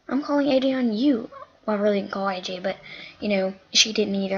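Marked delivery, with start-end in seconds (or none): 0.1-1.3 echoed back a bit louder and higher; mocking echo. She echoes the girl's threat back, mocking and louder. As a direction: throw her words right back at her. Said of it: "I said".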